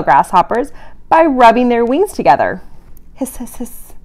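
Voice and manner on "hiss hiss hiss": soft unvoiced hiss; hissing cockroach. Reading to kids, voicing a cockroach's soft hiss. Cockroach sound read aloud.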